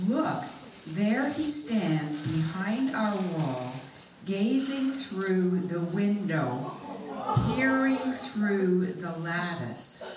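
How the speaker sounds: slow, expressive reading with drawn-out phrases; scripture reading. Acted. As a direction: read the love poem aloud, savouring each line. Reads scripture aloud.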